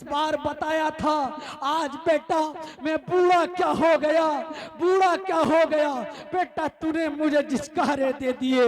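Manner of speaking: loud, aggrieved father pleading with his son; wounded father. Acted. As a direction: cry it out as a hurt old father. Hurt father rebukes his son. (بوڑھا باپ بیٹے سے شکوہ کرتا ہوا، بلند آواز)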